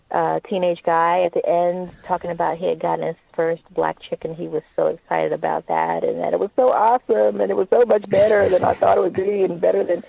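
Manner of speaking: lightly put-on dude voice; a hint of a bragging teen guy; white dude voice. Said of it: "that's her white dude voice".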